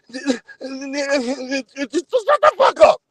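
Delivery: drawn-out, very slow dismissal; slow scornful retort. Acted. Streamer dismissing a panelist, slow and scornful. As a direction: drag out every word in contempt. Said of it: "final retort".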